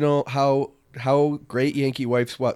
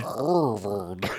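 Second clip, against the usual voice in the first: put-on Boston accent; 5 semitones lower, 4 dB quieter than usual. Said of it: "that's not a good Boston accent".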